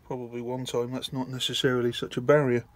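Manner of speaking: talking on a held breath; tight, breath held in; holding breath. Real, not acted. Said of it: "Sorry about me holding my breath".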